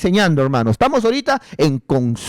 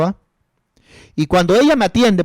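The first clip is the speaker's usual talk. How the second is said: ordinary delivery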